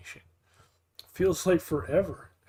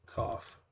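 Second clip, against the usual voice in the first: fake cough; 9 dB quieter than usual. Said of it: "spice stuck in my throat".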